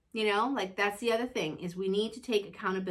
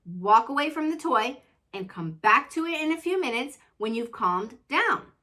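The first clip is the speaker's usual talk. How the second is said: firm mom voice; 2 semitones higher, 5 dB louder than usual. Retold or imitated. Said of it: "And I'm like".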